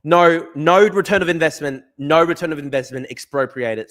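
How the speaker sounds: loud, indignant no; loud mocking retort; shouted protest. Real, not acted. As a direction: shout the rejection back at the screen. Mocking quoted minister, shouting back.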